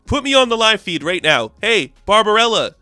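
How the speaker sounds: high, sneering villain boss rant; a cartoon TV-exec villain hamming it up; evil director. Evil director voiced in recap.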